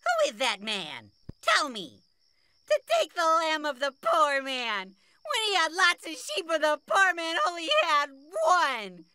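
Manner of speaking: high, indignant royal outburst; outraged king. Acted. King condemning the man who took the poor man's lamb, outraged. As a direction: rail at the culprit in a high, worked-up voice.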